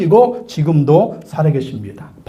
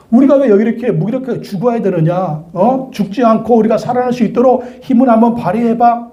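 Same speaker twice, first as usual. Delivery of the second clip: higher, complaining taunt; mocking; 5 semitones higher than usual. Robber facing death jeers at Jesus, mocking. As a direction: demand a rescue with acted scorn. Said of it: "한편의 강도가 막 비웃네요".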